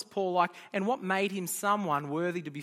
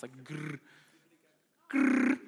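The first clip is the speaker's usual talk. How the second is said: rolled R growl; 3 semitones lower, much slower than usual. Shown as a demonstration. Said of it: "I'm not good at rolling the R's".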